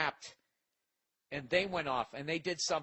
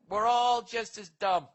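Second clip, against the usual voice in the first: emphatic declaration; 6 semitones higher, 8 dB louder, slower than usual. Real, not acted. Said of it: "emphatic punchline".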